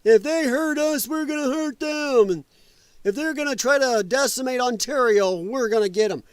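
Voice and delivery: hammed-up bluster, not earnest; mocking Canadian officials. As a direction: parody a blustering government threat. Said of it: "Canada saying they're gonna come after us".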